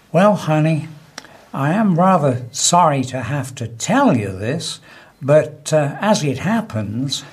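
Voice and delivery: lightly acted sweet, soft-spoken wife; gentle wifely voice. Wife deflates her proud husband in a joke, mock gentle voice. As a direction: let the put-down come gently and deliberately. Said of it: "in a soft, gentle voice said".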